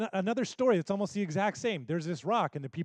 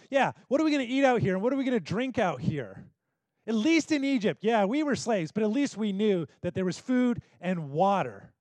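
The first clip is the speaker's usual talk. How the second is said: grumbling complaint; 4 semitones higher, 5 dB louder than usual. Acted. Grumbling Israelites complain in desert.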